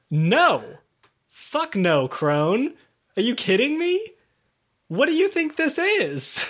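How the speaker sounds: hammed-up disbelief at the dying crone; outraged refusal. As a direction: player squawking at the crone's tiny request. Keelan refuses crone's request.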